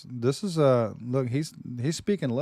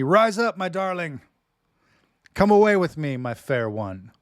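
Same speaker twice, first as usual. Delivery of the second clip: dramatic reading; 2 semitones higher, 4 dB louder than usual. Acted. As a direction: declaim it like a lover's poem. Reads love poem dramatically.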